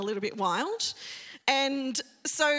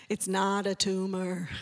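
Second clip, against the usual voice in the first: slow, lightly done Austrian accent impression of a tough action hero; a mild Austrian-accented growl, slow; Arnold Schwarzenegger voice; 6 semitones lower, slower than usual. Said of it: "in Arnold Schwarzenegger voice".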